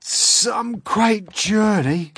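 loud, high, very slow exclamation; big high-pitched creature voice; centipede voice. Acted. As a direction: stretch it out loudly as the centipede. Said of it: "the centipede said".

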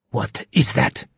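sharp, controlled villain's demand; sharp question. A narrator's reading. Shark questioning Hero about the sound, sharply. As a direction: ask it sharply, in a menacing character voice. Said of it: "the shark asked sharply".

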